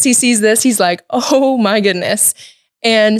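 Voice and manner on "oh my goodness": slow shocked exclamation. Retold or imitated. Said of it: "That's one way to say it".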